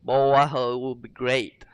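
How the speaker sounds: badly faked British accent; amateur mock-British accent; attempted British accent. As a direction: have a clumsy go at sounding British. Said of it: "I don't know how to do the British".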